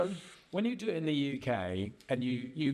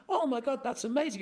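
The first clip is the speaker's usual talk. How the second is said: gushing American; 9 semitones higher than usual. Retold or imitated. American gushing at a pool bar.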